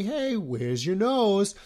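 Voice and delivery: put-on slow, high singsong to a baby; imitating baby talk, drawn out and high; parent quizzing baby. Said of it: "like if we say".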